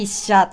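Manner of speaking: 一社 (haisha) with the first sound high, the rest low; head-high accent. Shown as a demonstration. Teacher shows listeners the first pattern on 一社, head-high accent. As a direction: start 一社 high, then drop, drawn out slowly. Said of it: "最初の音節が高く、それ以降の音節が低い".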